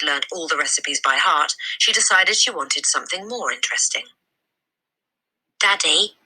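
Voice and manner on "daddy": put-on little girl voice. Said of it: "she said".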